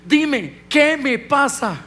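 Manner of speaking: preacher retells his own prayer to God, pleading. Retold or imitated. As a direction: beg God for an answer, reaching up. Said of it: "Y yo le pregunté a Dios".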